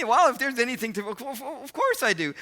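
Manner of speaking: high, stammering, loud outburst; acted eager assurance. Fiancé telling her he forgives, high eager imitation. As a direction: imitate him tumbling over his words.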